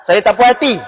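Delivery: angry wife. Acted. Wife complains to ustaz about her husband, angry. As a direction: complain with pitch pushed up. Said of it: "Dia marah lah, bini".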